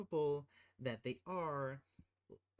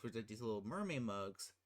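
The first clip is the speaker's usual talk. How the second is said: normal talking voice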